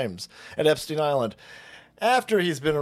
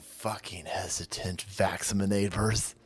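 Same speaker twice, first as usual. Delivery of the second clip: villain voice; 9 semitones lower, 5 dB quieter than usual. Retold or imitated. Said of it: "he's like".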